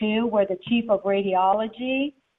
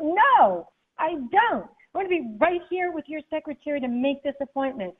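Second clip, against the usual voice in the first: raised, insistent refusal; defiant; 5 semitones higher than usual. Retold or imitated. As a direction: dig in and refuse. Retold standoff with doctor.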